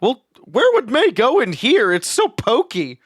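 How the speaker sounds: a hint of a puzzled man; slow, lightly voiced character; Eugene voice. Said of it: "Eugene kinda looks around and says".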